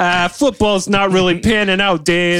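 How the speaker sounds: loud goofy Italian guy voice. Pretend. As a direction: ham up a wannabe tiger trainer. Mock Frank Marino impression.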